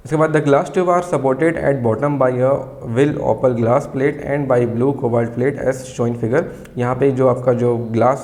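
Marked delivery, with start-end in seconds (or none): 0.3-6.4 very slow, word by word, for students to write down; slow dictation. Shown as a demonstration. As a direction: dictate each word clearly so the class can copy. Dictating from textbook.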